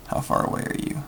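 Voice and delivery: breathy whisper, no voice at all; whispered question. Real, not acted. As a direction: whisper it to yourself while concentrating. Muttering to the docking target.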